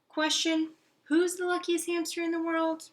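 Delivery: high, loud gleeful question; squeaky proud hamster boast; excited hamster. Acted. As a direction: bounce it up like a proud pet. Hamster's quiz to himself.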